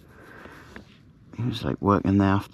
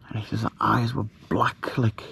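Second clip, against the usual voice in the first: spooky whisper; 5 dB quieter than usual. Real, not acted. Describing the ghost's black eyes to viewers, whispering. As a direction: breathe it in a hushed whisper.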